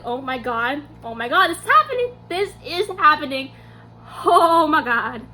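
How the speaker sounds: building retold fangirl panic; freaking out. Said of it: "freaking out".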